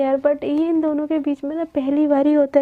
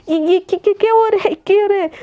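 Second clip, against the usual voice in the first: stammering, raised and hurried cry of confusion; flustered alarm; 4 semitones higher, 3 dB louder, faster than usual. Acted. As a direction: play startled, tripping over the first words. Hair dryer blasts into her mouth. (घबराकर हकलाते हुए)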